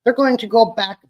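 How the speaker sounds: a light, barely shifted Trump impression. Vlogger tries his Trump impression on the livestream, lightly boastful. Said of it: "Trying to do my Trump impression".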